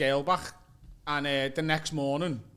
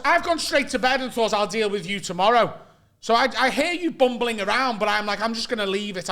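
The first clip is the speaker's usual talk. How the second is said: mildly raised indignant voice; mock telling-off; 3 semitones higher, 4 dB louder than usual. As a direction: imitate an aggrieved flatmate laying out his complaint. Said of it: "he's proper screaming at me".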